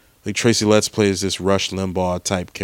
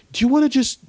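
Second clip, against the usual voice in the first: high, over-the-top outraged thug; evil supremacist; much faster than usual. Retold or imitated. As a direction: ham up the furious racist. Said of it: "he was like".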